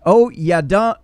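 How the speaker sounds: loud, slow, high angry rant; angry hood voice. Pretend. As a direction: rant it like a furious woman calling someone out. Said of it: "I'm gonna give it a shot".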